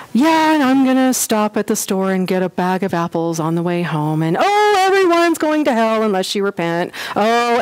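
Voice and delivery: offhand, casual as an errand list; mock breezy, as if it were nothing; matter-of-fact. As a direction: toss the warning out like a grocery note. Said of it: "delivered as matter-of-factly".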